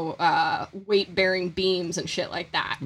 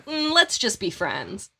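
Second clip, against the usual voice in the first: slow, softer gentle rejection; polite letdown; 4 dB quieter, slower than usual. Retold or imitated. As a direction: let them down slowly. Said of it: "you can respond to the Grim Reaper with".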